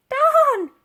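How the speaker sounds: high, loud frustrated outburst; caught-out lady cursing; annoyed exclaim. A narrator's reading. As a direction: spit out the mild curse. Dotty caught out again.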